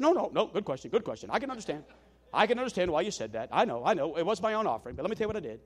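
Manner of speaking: a hint of a repetitive old preacher; calm old man, repeating himself; Lee Roberson voice. Old preacher reassures the apologizing young one, lightly voiced. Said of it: "This is kinda how he talked".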